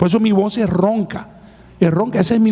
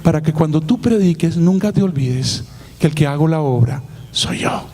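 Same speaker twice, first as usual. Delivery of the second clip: lower, solemn voice of the Lord speaking; the Lord's reply, lowered and solemn; voice of God; 5 semitones lower than usual. Retold or imitated. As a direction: speak as God answering, low and grave. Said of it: "El Señor me dijo".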